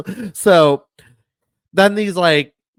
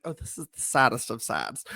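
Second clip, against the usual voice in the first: mock sad; 7 semitones lower, 9 dB quieter than usual. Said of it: "I'm just like".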